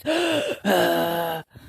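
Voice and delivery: imitated gasp for air; wheezy gasp. Answering the worried woman about allergies, wheezy gasp. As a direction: act out fighting for breath. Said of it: "trying to breathe".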